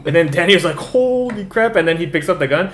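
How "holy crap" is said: slow, high drawn-out amazement; amazed. Retold or imitated. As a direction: let the awe stretch out. Danny's reaction in retelling.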